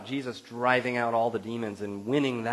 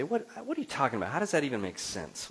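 fast, higher incredulous question; 4 semitones higher, faster than usual. Retold or imitated. Listener baffled by the pastor's claim, quick incredulous. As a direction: sputter out the disbelief. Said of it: "And you say".

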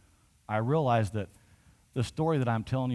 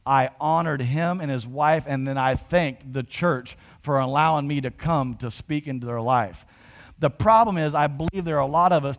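preaching with force; 5 dB louder than usual. Real, not acted. Preacher to the congregation, building in force. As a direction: press the point home to the church.

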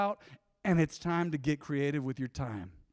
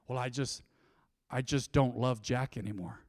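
a hint of a soft, mopey soap heroine; soap opera line; 7 semitones lower, 6 dB quieter than usual. Pastor parodying soap opera lovers, softer melodramatic sigh. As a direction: play it lightly like a telenovela breakup. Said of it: "the telenovelas say it".

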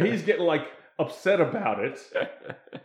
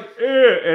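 mock grunt; 7 semitones higher, 9 dB louder than usual. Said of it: "it's just like".

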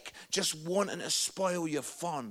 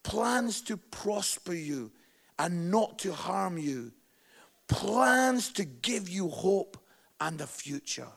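scripture reading; 2 semitones lower, slower than usual. Acted. Reading Jeremiah's promise to the congregation, slow and reverent. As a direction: read the verse slowly and reverently. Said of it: "It says".

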